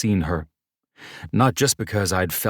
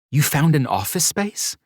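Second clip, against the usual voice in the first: delighted woman; 11 semitones higher, 4 dB louder than usual. Acted. Mercedes delighted.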